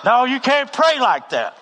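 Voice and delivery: high, loud, drawn-out scolding; acted rebuke. The Lord corrects the preacher's prayer, loud mock rebuke. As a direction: cut in with a big exasperated correction.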